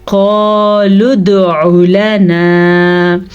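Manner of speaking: क़ालू दुअ लना with a clear throaty ain in दुअ; correct ain. Shown as a demonstration. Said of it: "हमने इसको पढ़ना है". (सही ऐन के साथ)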